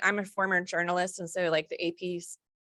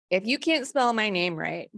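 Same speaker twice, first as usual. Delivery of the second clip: emphatic lecture; 3 semitones higher, 6 dB louder than usual. Retold or imitated. Lecturing students on spelling.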